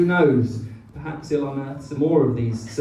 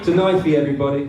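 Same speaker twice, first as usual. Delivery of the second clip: toast; 5 dB louder, much faster than usual. Real, not acted. Raising a toast.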